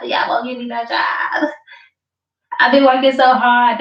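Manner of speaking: mock tearful yell, rising; mock crying wail. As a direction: wail it like a fake crybaby. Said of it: "You was begging for a job".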